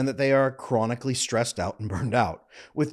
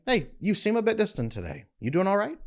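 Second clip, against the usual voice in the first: lightly voiced, higher-pitched check-in; casual check-in; 7 semitones higher than usual. Shown as a demonstration. Modelling a simple observation to a distant partner, light check-in. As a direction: gently ask after a partner, pitched up. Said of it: "Make a simple observation".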